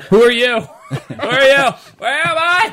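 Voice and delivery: high, slow bewildered voice; confused dazed voice. Pretend. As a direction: play stunned and lost. Blinded confused moviegoer.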